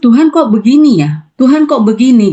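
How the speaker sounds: mild sob-tinged complaint to God; retold crying prayer. Wife praying over her husband, mildly tearful. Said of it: "Saya nangis".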